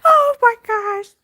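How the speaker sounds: high, slow, wheezing with laughter; laughed out, high and slow; laughing. Real, not acted. Recovering from laughing at her own story, high and slow. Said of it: "Dying laughing".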